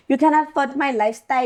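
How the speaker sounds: stretched, pulled accent on "You can't afford my lifestyle"; drawn-out accent. Shown as a demonstration. To the guy, the quote drawled in her accent. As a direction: drag the vowels out in her own accent. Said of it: "ke goga".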